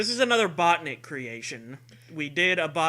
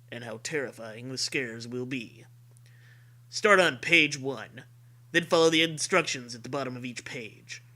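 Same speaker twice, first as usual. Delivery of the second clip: Rod Serling voice; 4 semitones lower than usual. Acted. Host reads the rules in a hint of Rod Serling. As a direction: intone it like a spooky TV host. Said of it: "has to be done with Rod Serling voice".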